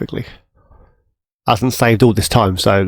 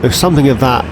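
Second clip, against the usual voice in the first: whistling nose; 3 semitones higher, faster than usual. Real, not acted. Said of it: "My nose is whistling".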